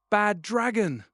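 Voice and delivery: loud, high shocked cry; shocked gasp. Acted. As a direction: gasp the name out in alarm. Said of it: "I gasp".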